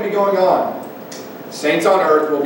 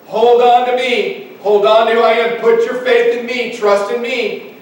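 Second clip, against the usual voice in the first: higher-pitched, insistent plea to trust; urgent exhortation; 5 semitones higher, 5 dB louder than usual. Acted. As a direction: urge them as a preacher voicing Jesus. Voicing Jesus urging believers to trust.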